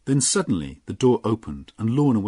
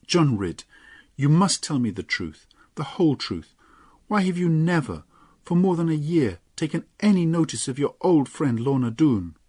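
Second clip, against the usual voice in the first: put-on raised young woman's voice, earnest questioning; Lorna, demanding; 8 semitones higher, 4 dB louder than usual. Lorna questioning John, earnest raised voice. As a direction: press him for the truth.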